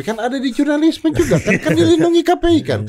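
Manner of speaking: high-pitched protest through laughter; squeaky, amused objection; laughing protest. Real, not acted. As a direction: voice climbs very high as you laugh and argue back. Laughing protest in joking debate.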